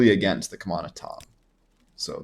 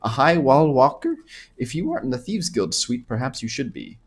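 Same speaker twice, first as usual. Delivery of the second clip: put-on Khajiit accent. Anasi admires the player's smooth moves, attempted Khajiit accent. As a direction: read it as a flirty Khajiit, lightly accented. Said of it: "is this a good Khajiit accent?".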